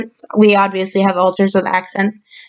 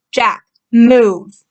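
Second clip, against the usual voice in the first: sudden urgent call, mildly raised; urgent warning; 4 dB louder than usual. Acted. Protector warns Jack of the oncoming car, urgent warning call. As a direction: call out a warning, stopping short of a full shout.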